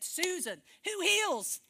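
loud, high rebuking question; firm challenge. Retold or imitated. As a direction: challenge her sharply, voicing God. Acts out God challenging her.

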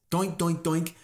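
even, rhythmic mock chops; imitated axe chops. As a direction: make the sound of a useless axe. Mimes axe hitting the tree.

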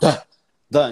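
isolated repeated syllables, pause between; imitating pronunciation drill. Learner repeating after the cassette, drill-like imitation. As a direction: repeat the sound like a tape exercise. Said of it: "tinha que repetir o som".

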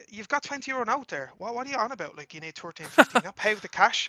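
retold incredulous pushback; incredulous challenge. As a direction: question him in disbelief, voice lifted. Challenges the man in retold argument.

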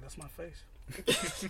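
very slow, deadpan retort. Retold or imitated. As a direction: drag it out, dry and unbothered. Deadpan reply to kids.

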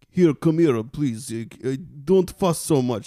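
hammed-up Russian accent; bad Russian accent. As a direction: put on a stagey, overdone Russian accent. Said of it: "has to play a Russian".

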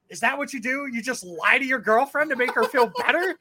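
retold indignant questioning. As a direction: confront him in disbelief. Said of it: "I started raising my voice a little bit".

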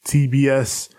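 slow, measured title announcement; deliberate ceremonial delivery; announcer introduction. Acted. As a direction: space out the words like a ring announcer. Formal announcer-style segment introduction.

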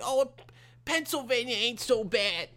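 high-pitched mock Jewish accent; Jewish accent impersonation. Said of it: "I did my Jewish fucking impersonation".

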